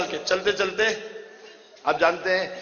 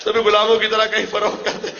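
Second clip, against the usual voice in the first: louder repeat, with غلاموں stressed; a louder, tearful repeat of the quote; grieving emphasis; 2 semitones higher, 4 dB louder, faster than usual. Shown as a demonstration. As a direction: say تمہیں غلاموں کی طرح again, louder and weeping. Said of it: "repeated with emphasis".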